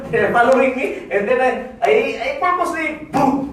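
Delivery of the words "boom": high "boom" for an impact; imitated bump. Speaker acts bumping his leg on a cart, mock impact. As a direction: voice the thud of a knock.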